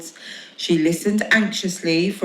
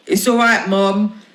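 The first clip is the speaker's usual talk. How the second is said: reassuring; 2 semitones higher, 4 dB louder than usual. Acted. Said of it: "he reassured her".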